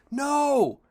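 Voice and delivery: sudden high, loud exclaimed No!; a loud, high-pitched No!; emphatic no. Real, not acted. Preacher answers own question emphatically.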